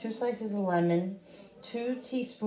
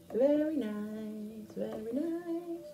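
slow, drawn-out very nice; slow savoring; 3 semitones higher, 5 dB quieter, much slower than usual. Real, not acted. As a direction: savor each word slowly.

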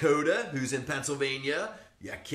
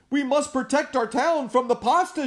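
mayor shouting; 13 semitones higher, 9 dB louder than usual. Acted. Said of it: "shouted the mayor".

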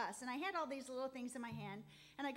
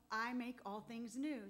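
the Lord's voice, slow. Retold or imitated. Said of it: "I heard him say".

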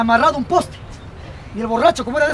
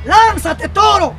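higher, raised call upward; acted shouting; 5 semitones higher, 4 dB louder, much slower than usual. Fireman urging the madman to jump, shouting up. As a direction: shout it up, stretching the name. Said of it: "le grita al bombero".

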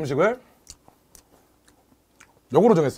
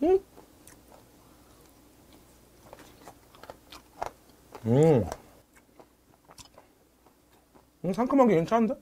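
chewing while talking; speaking between bites; mouth full; 8 dB quieter than usual. Real, not acted. Seen 0: Fish put in mouth before; lips pursed, jaw moving while speaking.

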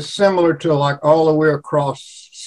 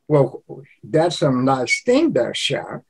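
Cajun accent; 4 dB quieter than usual. Shown as a demonstration. Showing a Cajun term of endearment, light Cajun accent. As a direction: drop "sha" in like a Cajun endearment. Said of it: "their accent is".

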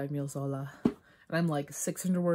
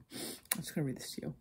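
quiet aside; 7 dB quieter than usual. Real, not acted. Aside before reading aloud.

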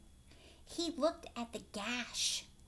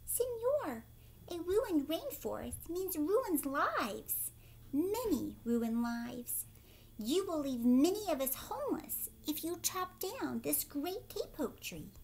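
high, slow little squeak of a frog; squeaky tree frog; 6 semitones higher than usual. Acted. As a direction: pipe it up high like a tiny frog. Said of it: "In a squeaky voice".

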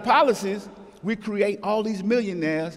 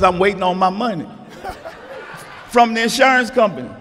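laughing boast; 4 semitones higher, 3 dB louder than usual. Retold or imitated. Cousin's gleeful boast.

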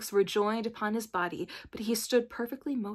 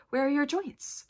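higher, louder anxious question; 6 semitones higher, 5 dB louder than usual. A narrator's reading. Dorothy back with the oil can, asking anxiously. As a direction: ask with urgent concern. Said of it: "returned and asked anxiously".

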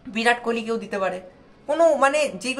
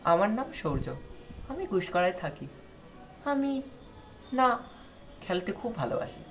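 slow halting speech; 8 dB quieter than usual. Shown as a demonstration. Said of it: "যদি ধীরে বলো না".

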